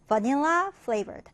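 very slow, clear reading; slow model reading. Shown as a demonstration. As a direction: spell it out slowly for learners. Teacher reads vocabulary example.

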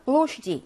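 "blow sheet" with stressed "blow" and an added ending after "sheet"; model reading. Shown as a demonstration. Teacher reads the plural form, "blow sheet" stressed at the start. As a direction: stress "blow", reduce the next vowel to "i". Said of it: "그래서 읽으면".

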